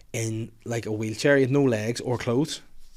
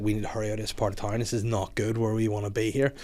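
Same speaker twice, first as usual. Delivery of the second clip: hurried; 4 semitones lower, 7 dB quieter than usual. Retold or imitated. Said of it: "I was like".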